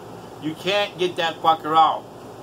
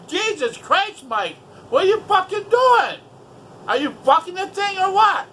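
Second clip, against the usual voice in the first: mock exasperated yell; 12 semitones higher than usual. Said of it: "I'm like".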